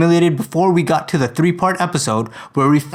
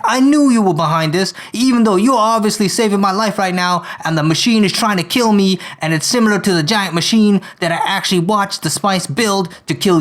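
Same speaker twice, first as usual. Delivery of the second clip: accusing rant in a put-on Brooklyn accent; Eddie Brock, Brooklyn accent; 3 semitones higher than usual. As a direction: blame him in an amateur Brooklyn accent. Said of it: "hear my poor Brooklyn accent".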